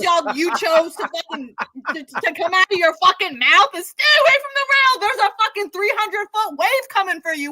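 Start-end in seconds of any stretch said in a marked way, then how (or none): 3.8-7.5 mock repeat. Repeating her last words, mocking.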